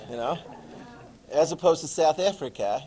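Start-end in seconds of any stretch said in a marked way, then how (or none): 1.3-2.8 lightly imitated South African; South African accent. Shown as a demonstration. Teacher comparing world Englishes, attempted South African accent. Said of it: "that's a terrible accent".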